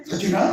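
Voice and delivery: చచ్చిండా? as a short rising question; a quick tentative rise on చచ్చిండా?; trying another way. Shown as a demonstration. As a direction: ask చచ్చిండా? with an upward lift. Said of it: "అరే ఇట్లా కాదు, ఇంకెట్లా చెప్తే బాగుంటుంది?".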